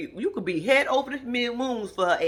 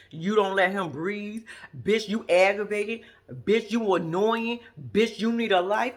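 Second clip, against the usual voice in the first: slow mock scolding; 5 dB louder, slower than usual. Speaker scolding Monique, slow, loud.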